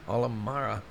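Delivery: Halimarjara repeated with his added syllables; own easier pronunciation. Shown as a demonstration. Vlogger repeats how he says the island's name, own easier pronunciation. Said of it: "That's how I say it".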